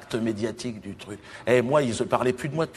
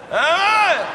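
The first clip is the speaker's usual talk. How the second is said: much higher, loud startled question; mock surprise; 7 dB louder than usual. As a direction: jump up on it in disbelief. Mock reaction to name Judas.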